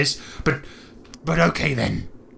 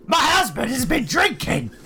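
tipsy wife voice; 14 semitones higher than usual. Acted. Player voicing a tipsy wife.

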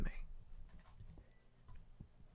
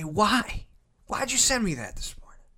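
higher, softer questioning voice; puzzled mom; 7 semitones higher, 5 dB quieter than usual. Acted. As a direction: ask it lightly, as a baffled mother. Voicing Mom's puzzled reply.

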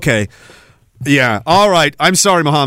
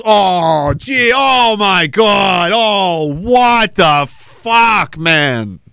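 soundboard shocked reaction; much slower than usual. Retold or imitated. Streamer imitating a shocked soundboard reaction to chat, drawn-out mock yell. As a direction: ham up a stunned soundboard reaction. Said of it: "the one where everyone goes".

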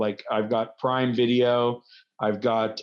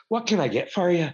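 higher, pointed bartender repeat, as if to a new customer; 7 semitones higher than usual. Retold or imitated. Bartender pointedly re-asks the Coors Light guy, mock patient. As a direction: ask again like you never heard the order. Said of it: "he turns a whole circle".

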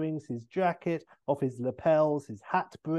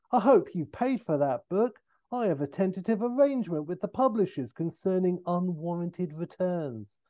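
higher, fussy Austin protest; indignant; 5 semitones higher than usual. Acted. Austin to his attacker over the smashed book, indignant. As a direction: complain with offended dignity.

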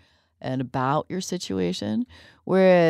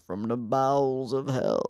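put-on kids echoing the priest; 3 semitones lower than usual. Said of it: "the children will go".

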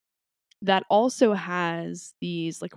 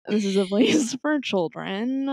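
stifled giggles; 2 semitones higher than usual. Real, not acted. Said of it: "I'm trying not to laugh".

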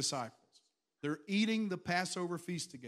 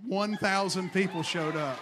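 louder proclamation of the crowd; louder repeat; 6 dB louder than usual. Shown as a demonstration. Pastor repeating it louder for the congregation. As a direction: hit it harder for the crowd. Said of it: "I'm gonna tell it to this crowd".

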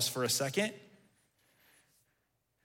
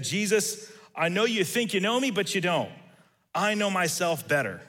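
confident; 3 semitones higher than usual. Retold or imitated. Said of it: "confidently looked Jesus in the eyes".

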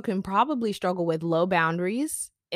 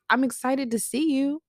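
higher-pitched, excited greeting; acted excitement; 7 semitones higher than usual. Speaker voicing her wished-for greeting to people, mock excited. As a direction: play being glad to see someone. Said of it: "I just wanted to be excited to see people".

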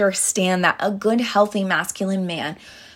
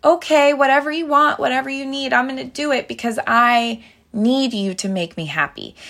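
eager giving in; 6 semitones higher than usual. Retold or imitated. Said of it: "so quick to come back".

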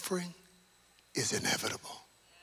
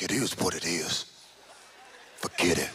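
mock hardened shrug; 12 semitones lower, 3 dB louder than usual. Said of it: "You're like".

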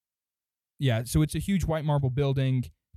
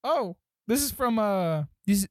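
higher-pitched gnome clerk, hesitant; misfired gnome voice; 7 semitones higher than usual. Acted. Game master fumbling the gnome clerk's voice, higher and hesitant. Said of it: "that's not the guy's voice".

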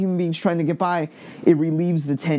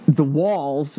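Long Island accent. Real, not acted. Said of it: "I said walls in a Long Island accent".

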